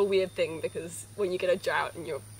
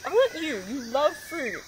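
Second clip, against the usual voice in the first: higher-pitched talk to an animal; teasing, affectionate pet voice; 6 semitones higher than usual. Real, not acted. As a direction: coo it playfully to a sheep. Cooing to the sheep.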